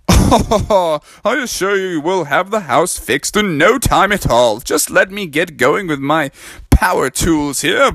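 lightly voiced confident frog dad; Daddy Frog. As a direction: reassure them with a slight character lilt. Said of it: "And Daddy Frog said".

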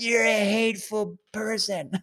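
high, put-on indignant voice; mocking an angry heckler. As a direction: imitate the heckler's accusing comeback. Imitating the heckler's comeback.

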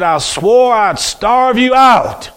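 half-yell it at the pastor; angry man yelling at the pastor, slow and pointed; retold yell. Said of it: "yelled at that pastor".

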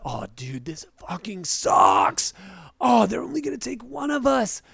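over-acted groaning complaint; mock dismay. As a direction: drag out the swear in hammy frustration. Acts Jack's dismay at the news.

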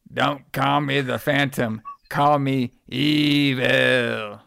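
"Don't call me the Phantom. Call me evil." drawn out slowly in a put-on creepy voice; slow it right down and make "evil" menacing; creepy caller voice. Shown as a demonstration. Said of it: "oh, wait, let me do it".

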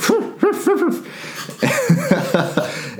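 quick wordless huffs of breath; flustered puffing. Retold or imitated. Claire boarding the plane, imitated flustered huffing. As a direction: puff out air as if flustered. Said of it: "still flustered".

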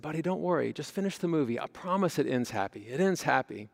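mock-soothing parent voice; calm, soothing. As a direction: soothe an upset child, imitating a parent. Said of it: "calm and soothing voice".

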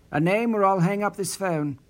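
man threatening to hang up on the caller, firmly; scolding threat. Acted. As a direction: lay down the ultimatum. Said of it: "Perry scolded the voice".

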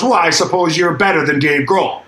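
mildly indignant mock challenge; irritated retort. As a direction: retell a miffed man's sarcastic challenge. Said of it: "then he got madder".

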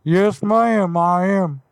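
folksy neighbourly caller, only slightly put on; Hank Hill voice. Prank caller greeting the car buyer, light Hank Hill voice. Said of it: "Yes, Hank Hill".

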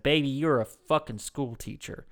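exasperated New Orleans father; blunt coworker impression; Jimmy. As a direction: scold a grown daughter, slowing at the end. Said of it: "I called my oldest up and I said".

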